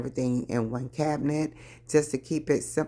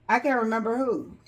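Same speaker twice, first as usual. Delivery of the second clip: laughing; 8 semitones higher than usual. Real, not acted. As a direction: say it through a laugh. Repeats line, second time laughing.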